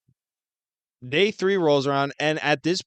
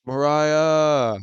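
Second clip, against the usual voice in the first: calling out; 2 semitones higher, 5 dB louder than usual. Retold or imitated. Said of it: "shouting out in the living room".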